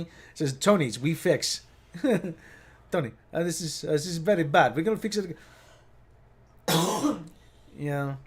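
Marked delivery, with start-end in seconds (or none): 0.5-1.6 slow mock Italian accent; Italian mechanic. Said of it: "typical Italian mechanic". 2.9-5.4 lightly mocked Italian accent; Italian mechanic. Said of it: "typical Italian mechanic".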